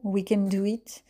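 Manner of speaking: "We Can Do It" in a heavy French accent, slowly; self-mocking French-accented English. Real, not acted. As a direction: say "We Can Do It" with French vowels and French rhythm. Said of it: "mon accent est toujours aussi formidable".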